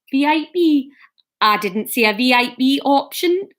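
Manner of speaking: tentative, uncertain Geordie; attempted Geordie accent. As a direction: feel your way into a Geordie accent. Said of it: "option in a Geordie accent".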